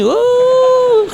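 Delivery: a sudden high, delighted gasp of a word; surprised wah. Acted. Jamaah acting out getting a windfall, high surprised wah. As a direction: exclaim it like you just found money. Preacher mimics someone's lucky windfall.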